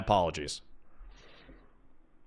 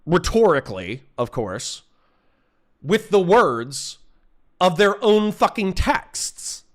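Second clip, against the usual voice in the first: pissed off; 3 semitones higher than usual. Real, not acted. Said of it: "I'm gonna be rude because you guys are pissing me off".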